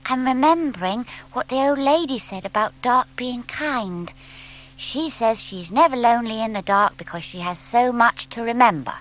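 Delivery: put-on a thoughtful young owl recalling advice; little owlet Plop. Narrator voices Plop.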